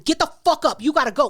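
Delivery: snapping, loud and angry. Retold or imitated. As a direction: snap at him to get out. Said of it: "Start snapping".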